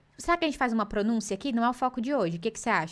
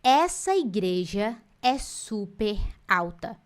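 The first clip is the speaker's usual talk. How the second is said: admiring wow; 3 semitones lower, much slower than usual. Pretend. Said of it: "Você olha e fala assim".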